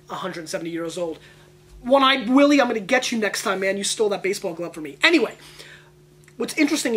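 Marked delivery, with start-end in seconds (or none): 1.8-5.0 mock call-out. Taunting a rival old garage-saler, mock loud call-out. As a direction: shout it across the yard like a playful threat.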